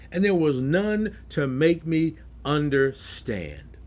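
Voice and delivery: slow, deliberate stress leading to "understand"; emphatic reading. Retold or imitated. Preacher quoting Daniel to the congregation, slowly emphatic. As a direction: draw out "none to make me understand" with emphasis. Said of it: "I'm emphasizing this".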